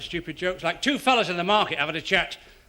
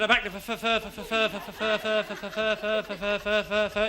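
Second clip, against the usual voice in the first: stammer; 3 semitones higher than usual. Acted. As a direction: stutter on for. Stammering punter again.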